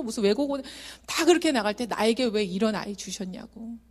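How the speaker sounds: insistent reenacted remonstrance; retold protest. Mother demanding answers from God, mildly indignant protest. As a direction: press God with aggrieved questions. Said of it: "막 하나님 앞에 계속 항변하는 거야".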